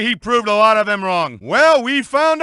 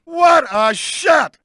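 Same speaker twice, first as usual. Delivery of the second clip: excited shout; 5 semitones higher, much slower than usual. Acted. Commentator hollering at a high-flying move, slow excited shout. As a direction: belt it out in awe. Commentator reacting to big hit.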